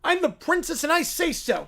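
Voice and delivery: bratty princess. Acted. Bratty princess demanding her way.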